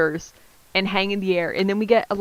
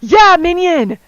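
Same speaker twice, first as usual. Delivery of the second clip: excited yes; 8 semitones higher, 7 dB louder, slower than usual. Real, not acted. Excited agreement on the reference.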